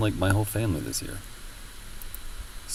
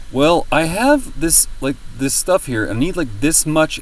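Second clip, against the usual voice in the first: high polite retelling; 7 semitones higher, 5 dB louder than usual. Retold or imitated. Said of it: "And I was like".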